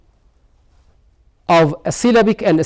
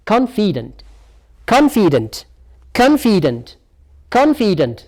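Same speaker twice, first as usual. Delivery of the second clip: "Confident" repeated with the same falling tune; "Confident" as a careful stress model; pronunciation drill. Shown as a demonstration. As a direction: drill "Confident" evenly for learners to copy. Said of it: "practice the way how you are pronouncing".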